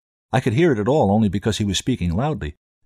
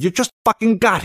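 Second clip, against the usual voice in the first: high cartoon voice; 11 semitones higher, 4 dB louder than usual. A narrator's reading. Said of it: "character he sounded like".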